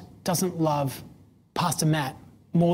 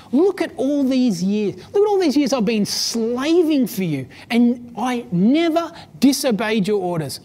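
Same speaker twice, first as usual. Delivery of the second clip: bitter son listing his years of slaving; resentful older brother; 3 semitones higher than usual. Retold or imitated. Older son complains to his father, indignant and aggrieved. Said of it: "He responds and he says".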